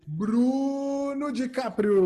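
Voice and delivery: announcer call. Acted. Host calls guest like announcer.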